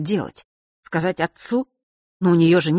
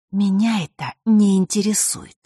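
put-on coolly indifferent, higher-pitched girl; cold; 5 semitones higher than usual. A narrator's reading. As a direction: dismiss it with feigned indifference. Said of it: "холодно заметила Василиса".

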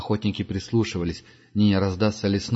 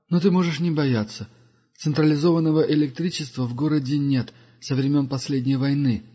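put-on a higher, measured old wanderer; lightly voiced wise old pilgrim; Duga's voice; 6 semitones higher than usual. Duga reassures. (голос мудрого странника)

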